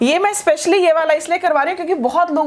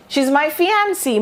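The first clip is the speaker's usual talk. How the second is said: said lovingly; much slower than usual. Shown as a demonstration. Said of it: "बड़े प्यार से बोलो".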